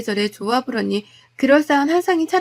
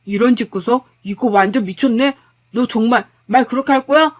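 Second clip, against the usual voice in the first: louder, incredulous retort; husband stunned by divorce talk, angry disbelief; 5 dB louder than usual. Acted. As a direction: challenge her, disbelieving. Husband fires back.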